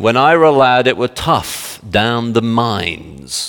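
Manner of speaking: drawn-out mock Yorkshire boast; milk the hardship in broad Yorkshire; Yorkshire accent. Old-timer recalling the coal mines, Yorkshire accent. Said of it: "and it's a Yorkshire accent".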